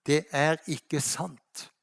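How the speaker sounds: slow, hushed divine voice; voice from heaven. Acted. God answering Rania's prayer, slow and hushed. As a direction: let God's correction fall slowly and softly.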